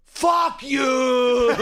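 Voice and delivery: high, loud furious yell. Retold or imitated. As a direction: bark it at the customer. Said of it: "he's just ready to yell at him".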